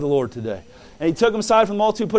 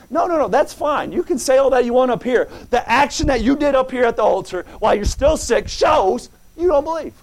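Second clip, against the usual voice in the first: higher, louder firm correction; preacher's retort; 6 semitones higher, 3 dB louder than usual. Pretend. Preacher answers the doubter at the altar, higher and louder. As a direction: set him straight, no arguing.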